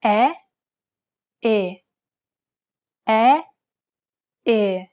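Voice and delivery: E with the mouth wide open, then a narrow closed E; Italian vowel demo; open versus closed E. Shown as a demonstration. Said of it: "Compare the open E followed by a closed E".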